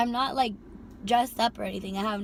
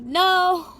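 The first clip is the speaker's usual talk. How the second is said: sharp no; 8 semitones higher, 9 dB louder than usual. Retold or imitated. Refusing passenger's invite.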